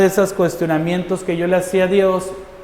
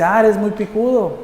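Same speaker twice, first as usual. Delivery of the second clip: retold taunt; 5 semitones higher, 3 dB louder than usual. Acted taunt from armed man.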